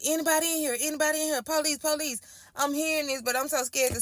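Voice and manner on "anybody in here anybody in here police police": higher, searching call; police calling. Retold or imitated. Officers searching the house calling out, higher. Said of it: "That's what I'm hearing".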